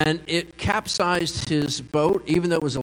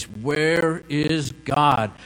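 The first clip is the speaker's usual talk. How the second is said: slow, louder mock-stern pastor; deep pastor voice; 3 dB louder, much slower than usual. Pastor questioning the boy, slow and booming. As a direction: drag it out like a pastor trying to impress. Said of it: "in a deep voice".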